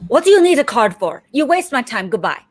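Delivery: imitated brusque dismissal, starting high and quick; rude salesman. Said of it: "got really rude".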